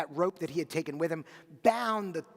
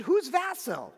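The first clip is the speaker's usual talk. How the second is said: put-on old widow; 11 semitones higher, 6 dB louder, slower than usual. A narrator's reading. Widow questions the stranger.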